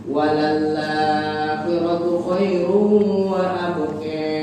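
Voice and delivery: slow chanted verse; Quran recitation. Shown as a demonstration. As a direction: sing the verse out with drawn vowels. Teacher recites verse as Waros demo.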